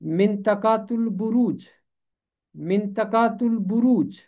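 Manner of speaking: मिंतकातुल बुरूज said twice, syllable by syllable, ending in बुरूज; teacher sounds out मिंतकातुल बुरूज; model pronunciation. Shown as a demonstration. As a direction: show the class मिंतकातुल बुरूज clearly. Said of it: "इसका तलफ़ुज़ बनता है".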